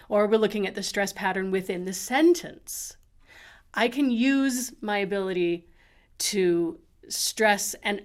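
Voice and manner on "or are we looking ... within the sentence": we leaned on in the question; are we with we stressed. Shown as a demonstration. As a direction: hit the word we. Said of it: "Even if I look at the".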